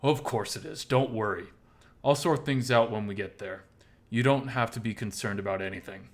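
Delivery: lightly voiced firm, caring host; reassuring Oswald. Oswald telling Miles not to worry about the room, reassuring.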